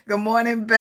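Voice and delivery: high sing-song good morning; cheery high hello to the stream; bright greeting. Real, not acted. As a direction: greet the viewers brightly, pitch way up.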